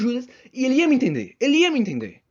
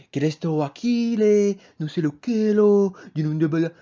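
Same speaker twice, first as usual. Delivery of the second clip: fake Spanish accent; 2 semitones lower than usual. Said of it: "você fala português com sotaque de espanhol".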